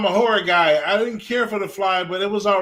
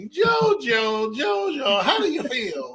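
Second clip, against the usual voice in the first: grandparent calling out; 5 semitones higher, much slower than usual. Retold or imitated. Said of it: "when the grandparents is watching it".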